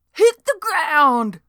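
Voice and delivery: high, slow, loud squeak; a panicky rookie squeaking orders; young deputy squeaks at the ladies, high and loud. A narrator's reading. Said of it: "he squeaked".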